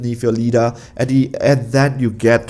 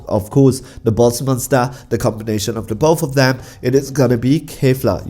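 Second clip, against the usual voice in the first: hoarse, worn-out voice. Real, not acted. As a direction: voice going from coughing. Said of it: "You can hear that the voice is going".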